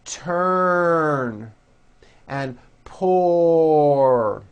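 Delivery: each word closed on a strong R; strong final R. Shown as a demonstration. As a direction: model final R words for repetition. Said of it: "Repeat after me".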